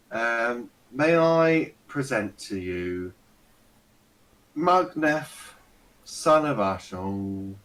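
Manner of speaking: lightly voiced old servant, slow and formal; servant announcing guests. Weary old servant announcing guests to lord, lightly formal.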